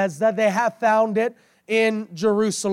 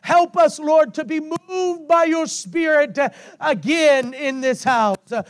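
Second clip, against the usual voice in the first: fervent prayer; 2 semitones higher than usual. Real, not acted. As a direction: pray aloud over the congregation. Leads congregational prayer.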